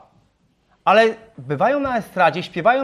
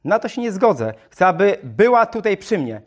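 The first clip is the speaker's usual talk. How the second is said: mild mock outcry, slightly raised; the mother objects to the missionary, understated; she cried out; 2 semitones higher, 3 dB louder than usual. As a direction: protest as an indignant mother. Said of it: "krzyknęła".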